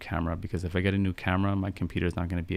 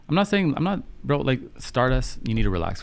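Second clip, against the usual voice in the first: high, loud burst of protest, then slowing down; exasperated pushback; 6 semitones higher, 3 dB louder than usual. Real, not acted. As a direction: cut the viewer off, half laughing in disbelief. Chatter pushes back on viewer.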